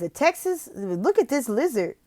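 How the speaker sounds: high, curious teacher questions; excited questions. Shown as a demonstration. Tutor excites the student about a Texas lizard. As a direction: make the lizard fascinating. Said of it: "It says".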